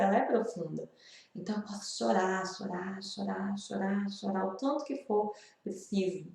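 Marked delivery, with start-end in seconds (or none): 1.3-6.3 letting each chorar fade softer and softer; gentle fade, almost to nothing; fading to quiet. Real, not acted. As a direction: drift down to a soft hush. Repeating chorar, letting herself cry.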